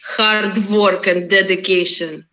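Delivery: hard work in a put-on Russian accent; strong Russian accent. Shown as a demonstration. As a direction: lay on a thick Russian accent. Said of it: "go for a strong Russian accent".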